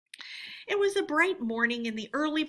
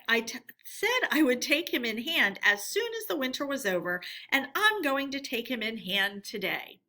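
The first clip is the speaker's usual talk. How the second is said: stern badger; 3 semitones higher, 4 dB louder than usual. Badger explaining his plan, sternly determined. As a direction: lay down the law. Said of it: "replied the badger".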